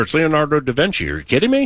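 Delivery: high, fast, thrilled Italian-flavored rave; excited. Real, not acted. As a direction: gush about da Vinci in disbelief. Raving about The Last Supper.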